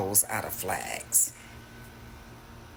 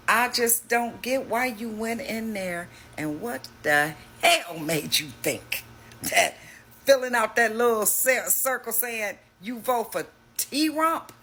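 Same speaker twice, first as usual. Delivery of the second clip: incredulous; 9 semitones higher than usual. Real, not acted. Ranting at Trump voters about the voting booth, incredulous and high. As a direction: pitch climbing high in disbelief.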